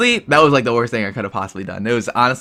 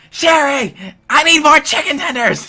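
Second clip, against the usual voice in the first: high, loud call to the kitchen; yelling back; 5 dB louder than usual. Retold or imitated. Worker yelling to Sherry for more tenders, loud call. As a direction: shout it back to a coworker. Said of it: "She's, like, yelling back".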